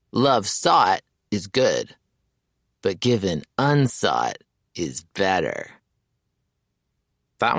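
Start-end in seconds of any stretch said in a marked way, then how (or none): 0.1-5.8 slow, tender stage recitation; gentle Shakespeare recital. Acted. Mayers advising his friend about Chip in slow recitation. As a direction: savour each word like a sonnet. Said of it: "Mayer smiles".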